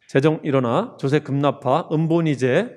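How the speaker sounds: normal talking voice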